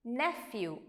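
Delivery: "nephew" as NEFF-yoo; model pronunciation. Shown as a demonstration. Teacher answering how to read it, careful model pronunciation. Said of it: "how do you read this?".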